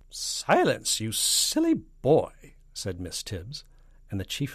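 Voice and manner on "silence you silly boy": loud, high, drawn-out reprimand; stern scolding. A narrator's reading. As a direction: scold him like a naughty child. Miss Tibbs scolds army chief.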